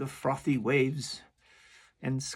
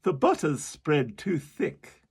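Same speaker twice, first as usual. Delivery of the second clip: louder, slow carpenter; 3 semitones higher, 5 dB louder than usual. Acted. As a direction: complain about the butter. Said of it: "The carpenter said nothing, but".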